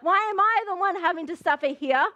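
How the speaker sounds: high, drawn-out whine of self-pity; hammed-up poor-me complaint; pity party. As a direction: wail it like a mock sufferer. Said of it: "in a pity party being like".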